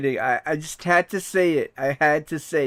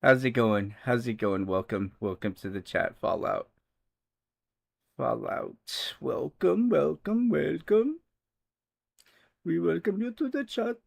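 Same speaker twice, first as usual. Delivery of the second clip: mock Indian accent greeting the chat; a light put-on Indian accent, rising on each welcome; 2 semitones lower, 3 dB quieter than usual. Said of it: "using, like, an Indian accent".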